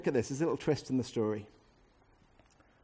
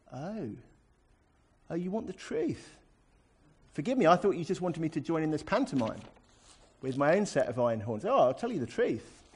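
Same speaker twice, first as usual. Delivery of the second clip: mock-innocent, as if only now understanding; feigned surprise; 2 semitones higher than usual. Shown as a demonstration. Prophet answering the king's demand for truth, feigned surprise. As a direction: play the penny dropping, lightly sarcastic. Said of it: "Let me put the tone of voice in".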